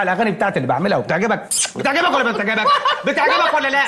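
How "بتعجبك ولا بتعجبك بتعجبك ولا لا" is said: higher, laughing playful push; teasing laugh. Acted. Nephew teasing his uncle about his songs, laughing. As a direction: tease him with a laugh in it.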